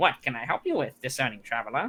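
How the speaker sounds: small, squeaky gnome-like voice. Storyteller voices a gnome addressing a traveler, mousy, squeaky gnome voice. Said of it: "little like mousy, squeaky voice".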